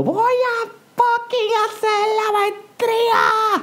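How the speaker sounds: very high, emphatic, drawn-out shout. Acting out shouting an affirmation while making love: pretend shouting. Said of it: "Y gritando".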